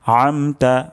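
squeezed ayn at the start of আমতা; mid-throat ayn. Shown as a demonstration. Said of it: "আইন উচ্চারণ হবে গলার মাঝখান থেকে". (গলার মাঝখান থেকে আমতা)

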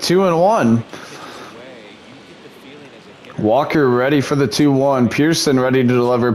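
mock TV broadcaster calling the at-bats; steady announcer patter, pitch by pitch; play-by-play announcer. Gamer calls his own video game like a broadcaster.

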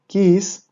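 Kiss, said again with a short i; Hebrew word kiss. Shown as a demonstration. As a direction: repeat Kiss as a model. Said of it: "El primer ejemplo es kiss". («Kiss» repetido como modelo)

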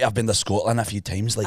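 demonstrated Scottish accent; chatty line in a Scottish accent. Shown as a demonstration. Host sets a line to copy, Scottish accent. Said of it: "They do Scot-, Scottish accent".

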